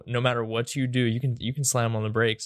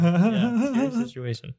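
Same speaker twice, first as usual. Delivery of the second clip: mock high squeak; 10 semitones higher, 3 dB louder than usual. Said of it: "repeat of yeah, dude, scary situation".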